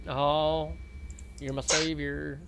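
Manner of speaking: swooning, slowed-down thanks; milk it like a rescued damsel; mock gratitude. Teasing Pluto for the reinvite, a hammed-up swooning thanks.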